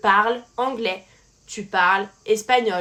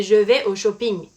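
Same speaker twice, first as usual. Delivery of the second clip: English loanword "shopping" in a French accent; frenchified "shopping", French accent throughout; 2 semitones lower, 4 dB louder than usual. Shown as a demonstration. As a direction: say "shopping" as a French speaker would. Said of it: "avec un accent français".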